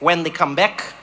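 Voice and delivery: lightly imitated not-quite-Dutch accent; deadpan logical reply, hint of Dutch-like accent; odd Dutch-like accent. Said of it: "like, Dutch, but it wasn't Dutch accent".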